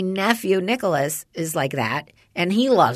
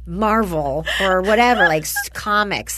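laughing tired plea; 3 semitones higher than usual. Retold or imitated. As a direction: beg off through laughter. Tired mom to chatty son, laughing.

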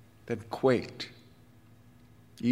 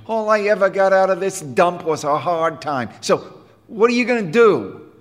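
a hint of a surly teenage boy, raised and loud; lightly voiced sneering kid, pushed up loud; tough delinquent boy; 9 semitones higher, 6 dB louder than usual. Jim scoffing at the band director, a touch of surly boy.

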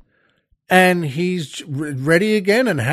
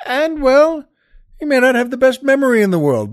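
usual speaking voice

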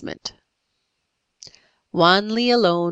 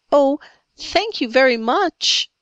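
put-on small, higher timid child's voice; 6 semitones higher, 3 dB louder than usual. A narrator's reading. Little Polly thanks the pirate chief, timidly. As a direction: thank them shyly, pitched up. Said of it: "said Polly timidly".

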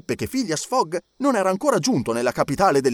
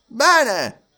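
judge Obadiah; 9 semitones higher, 6 dB louder than usual. A narrator's reading. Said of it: "disse il giudice Obadiah".

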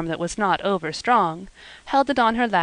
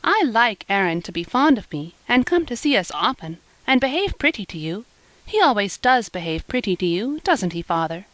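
a hint of a higher, eager girl's voice, telling her father; lightly voiced young girl Eppie; 3 semitones higher than usual. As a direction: gently play the earnest young daughter.

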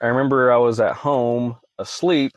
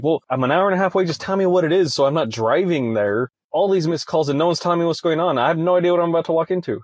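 retold plea, pitched higher and rushed; frantic pleading; 5 semitones higher, faster than usual. Demanding answers from friend over the phone, higher and fast. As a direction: beg for the truth, fast and high.

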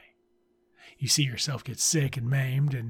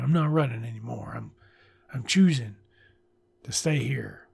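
earnest reading. Shown as a demonstration. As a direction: say it like you mean it. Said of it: "of course it's a good line".

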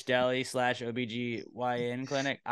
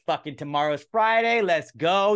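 hyped; 6 semitones higher, 8 dB louder than usual. Retold or imitated. Imitating Thursday hype.

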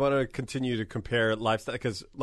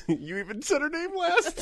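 laughing. Real, not acted. Both laughing.

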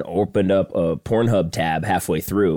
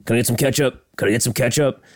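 higher-pitched mock impatience; imitating a demanding customer, pitched up; impatient demand; 4 semitones higher, faster than usual. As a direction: lightly act out a pestering diner. Retold impatient movie diner demand.

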